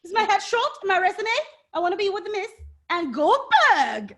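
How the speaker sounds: high-pitched mock wrestler voice; Billy Kay. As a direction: imitate her pleading up high, slowing on the last name. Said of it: "Billy Kay came out and was like".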